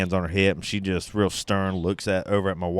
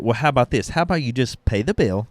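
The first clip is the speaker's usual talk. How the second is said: higher-pitched, talking down to a customer; condescending; 5 semitones higher, 3 dB louder than usual. Retold or imitated. Restaurant owner telling a customer to pay up, condescending. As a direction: spell it out as if to a dummy. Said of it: "She's real condescending, like I'm some kinda dumbass".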